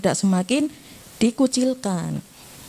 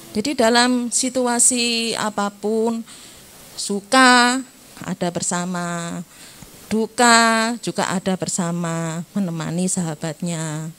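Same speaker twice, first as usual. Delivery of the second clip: slow, deliberate; slower than usual. Shown as a demonstration. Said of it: "teacher stresses suka and duka".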